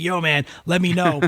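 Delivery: a hint of a laid-back Chad; lightly voiced easygoing dude; casual guy. Chad offering his number, laid-back and friendly. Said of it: "he was like".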